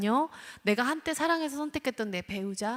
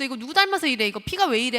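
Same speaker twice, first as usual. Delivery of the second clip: blaming scold; 3 semitones higher, 8 dB louder than usual. Retold or imitated. Parent blaming the rude child, loud fast scolding. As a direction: tear into the child for rudeness. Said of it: "하면서 비난을 하기 시작하죠".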